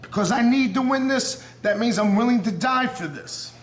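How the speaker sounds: emotional callout. Real, not acted. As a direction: swear you'll die to win it. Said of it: "now I'm getting emotional".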